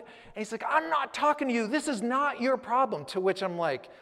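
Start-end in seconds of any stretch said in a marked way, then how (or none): 0.7-3.0 much higher and loud, dismissive; retold angry guard. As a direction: brush him off with a raised voice. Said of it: "he started yelling up".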